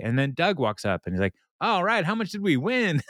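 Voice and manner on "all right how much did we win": put-on greedy old man. Doug greedy question.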